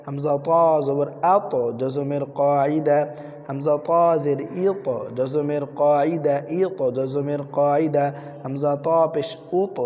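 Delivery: steady chant with long-held vowels; Qaida drill recitation. Shown as a demonstration. Teacher spells out qalqala letters for pupils, drill recitation. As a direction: bounce the stopped letters, stretch the rule's name.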